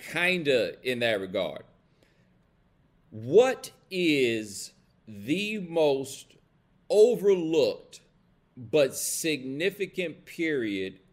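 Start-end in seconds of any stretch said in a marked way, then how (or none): 3.1-8.0 very slow build, overlooked pushed higher and louder; drawn-out emphasis. Acted. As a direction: stretch it out, then hit overlooked. Poses the key question to chat.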